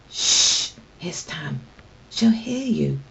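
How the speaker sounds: hushed, breathy warning whisper; frightened whisper to friends. Acted. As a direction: shush them in a whisper. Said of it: "whispered Tam".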